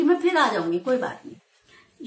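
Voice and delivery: a lazy, unbothered cat shrugging it off; cat's casual reply. Retold or imitated. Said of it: "जैसे फिर कह गई हो कि".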